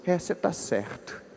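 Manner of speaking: small, soft, slow concession; imitated chastened mother; meek mother giving in. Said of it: "Ela ouviu tudo caladinha e só falou assim".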